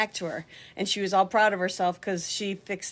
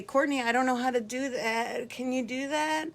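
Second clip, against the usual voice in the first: higher-pitched, playful wheedling; mock helpless plea; 5 semitones higher than usual. Asking the helper to do it for her, mock helpless plea. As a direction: play helpless, lifting the pitch into the request.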